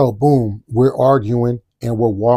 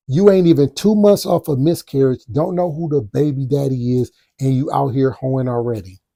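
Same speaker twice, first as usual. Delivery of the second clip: taunting insult. Retold or imitated. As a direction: throw the insult right in her face. Retelling insult that set her off.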